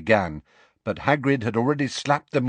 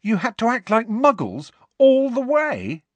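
much higher, louder shock; utterly aghast; thunderstruck; 6 dB louder than usual. A narrator's reading. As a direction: Ron thunderstruck at Hagrid. Ron thunderstruck.

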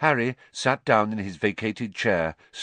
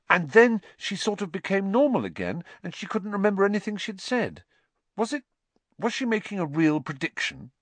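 put-on high, hesitant boy's voice; Harry, urgent; 11 semitones higher than usual. A narrator's reading. Harry tells the headmaster of the exam, high and urgent. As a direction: pitch it up, anxiously reporting.

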